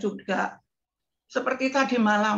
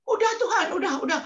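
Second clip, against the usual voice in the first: laughing plea; 10 semitones higher, faster than usual. Retold or imitated. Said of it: "ketawa itu".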